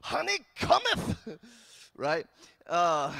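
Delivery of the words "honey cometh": high, loud, drawn-out mock preaching; hammed-up biblical call, stretched out; mock bold proclamation. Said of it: "I was not that confident".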